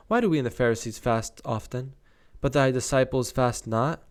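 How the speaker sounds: measured Bible read-aloud; scripture reading. Acted. Reader sharing the disciples' question, scripture reading. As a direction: read the verse out clearly and deliberately.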